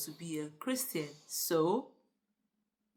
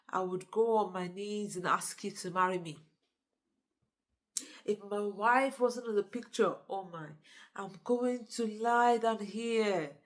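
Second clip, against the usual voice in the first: lightly acted sweet talk; sweet-talker. Flatterer laying it on for his boss, lightly hammed-up sweet talk. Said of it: "he started the sweet talking thing".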